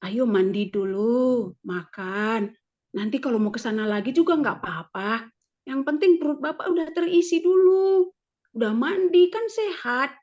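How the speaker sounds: gentle coaxing wife, lightly acted; sweet talk. Wife greeting husband home from cards, mildly sweet. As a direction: coax him kindly to bathe and eat. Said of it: "saya bisa berkata manis kepada dia".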